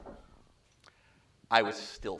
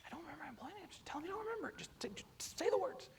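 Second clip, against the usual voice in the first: high, urgent whisper; feed him the lines in a hushed rush; whispering to a colleague mid-call; 11 dB quieter, faster than usual. Retold or imitated. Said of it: "I just whisper".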